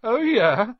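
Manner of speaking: high, loud, challenging retort; defiant scoffing question; attempted sneer. A narrator's reading. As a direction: try to sneer back at a threat. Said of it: "trying to sneer".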